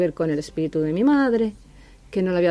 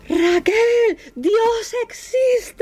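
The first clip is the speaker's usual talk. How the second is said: very high, drawn-out mock cry of revelation; astonished cry; much slower than usual. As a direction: imitate someone stunned, stretching it out high. Acting out Daniel's stunned first words.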